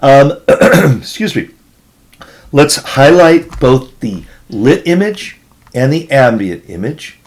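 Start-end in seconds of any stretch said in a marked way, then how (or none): 0.0-1.5 clearing a hoarse throat; a rough clear of the throat. Real, not acted. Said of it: "a little bit of a hoarse voice".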